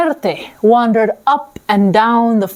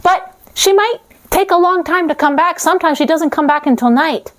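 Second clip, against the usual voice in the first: put-on much higher child voice; little girl voice; 7 semitones higher than usual. Little girl answering Death, high child voice.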